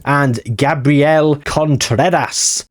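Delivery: Contreras with a failed rolled R, slow; slow, botched rolled R in Contreras; trying to roll the R. Shown as a demonstration. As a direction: attempt a trilled R on Contreras and miss it. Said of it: "that was me trying to roll my R's on Contreras".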